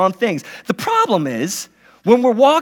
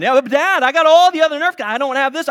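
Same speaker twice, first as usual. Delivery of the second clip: put-on louder, faster whiny child; insistent kid; 5 semitones higher, 4 dB louder, faster than usual. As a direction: push back at dad, eager and whining. Son arguing for Nerf gun.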